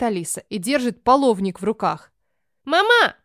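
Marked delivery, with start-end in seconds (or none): 2.6-3.1 put-on much higher, louder childish cry of Mama; calling out together. Both girls cry out to their mother, high loud call. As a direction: kids shouting for mom all at once. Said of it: "говорят хором".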